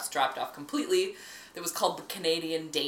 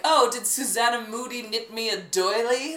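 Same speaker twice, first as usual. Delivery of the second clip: high, loud affected daintiness; mock dainty lady; 6 semitones higher, 5 dB louder than usual. Mocking the name Canadian Dainty, high and affected. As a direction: put on a fussy, dainty voice.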